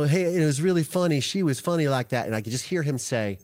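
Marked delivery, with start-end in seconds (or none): 0.0-2.3 bad Southern accent, slightly raised; Alec Murdaugh. Father reminiscing about Mama to his son, in a put-on Southern accent. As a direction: imitate a chatty Southern father. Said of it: "this is my bad Southern, mm, Alec Murdaugh accent".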